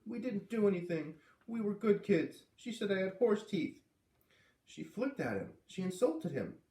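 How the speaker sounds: put-on high, indignant girl's voice; a child defending her brother; defensive girl. Girl defending herself to Dad.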